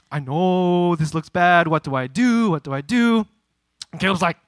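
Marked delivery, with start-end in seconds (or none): 0.1-3.3 acted-out worried pleading; mild panic. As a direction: stretch it out, at a loss. Acts panicked appeal to his brother.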